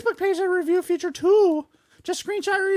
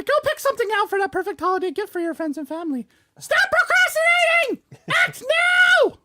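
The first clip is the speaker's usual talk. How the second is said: pushy ad read; 2 semitones higher, faster than usual. Acted. Ad read for merch.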